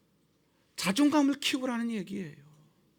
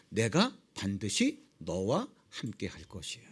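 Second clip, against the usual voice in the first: low, slow God voice; 13 semitones lower, 7 dB quieter than usual. Acted. God's promise voiced low, slow.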